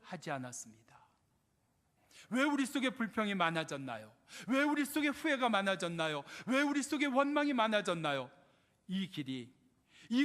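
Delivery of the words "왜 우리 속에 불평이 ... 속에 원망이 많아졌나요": insistent refrain, climbing with each repeat; forceful preaching. Acted. Preacher asking the congregation why complaints grew, mounting forceful preaching. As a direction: press the question harder each time.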